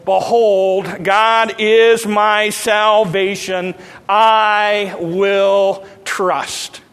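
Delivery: slow, drawn-out scripture reading; scripture intoning. Acted. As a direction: stretch each word of the verse. Reads Isaiah slowly, intoned.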